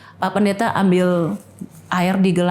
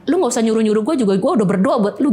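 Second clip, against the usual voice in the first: kesal dalam hati; faster than usual. Retold or imitated. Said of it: "Dalam hati saya".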